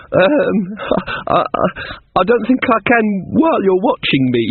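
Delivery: a touch of nervous schoolgirl; nervous girl. Acted. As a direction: stumble over the words, intimidated. Amanita nervous before Granny.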